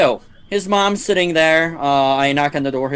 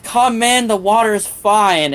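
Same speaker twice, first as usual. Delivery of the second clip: seductive mom; 7 semitones higher, 4 dB louder, slower than usual. Retold or imitated. Naked mom invites narrator into pool.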